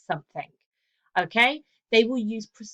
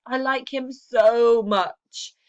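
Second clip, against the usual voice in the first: slow, louder, gushing "I like him so much"; gushing intensifier; 3 semitones higher, 7 dB louder, much slower than usual. Shown as a demonstration. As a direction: gush over him, stretching every word. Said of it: "Women will use intensifiers".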